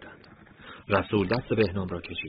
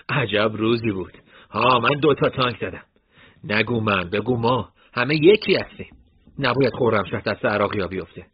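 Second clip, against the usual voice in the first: excited boast; 6 dB louder than usual. Acted. Excited fighters boasting after battle.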